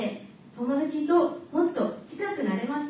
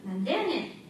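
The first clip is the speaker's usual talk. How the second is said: higher, lightly acted Osaka comeback; Osaka dialect; 3 semitones higher, 4 dB quieter, faster than usual. Student answering a friend's joke, Osaka dialect. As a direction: toss back an Osaka-dialect retort. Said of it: "と返し".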